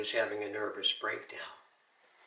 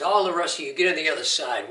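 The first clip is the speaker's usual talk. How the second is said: retold drill sergeant shout; 5 semitones higher, 8 dB louder, faster than usual. Drill sergeant barking at the platoon.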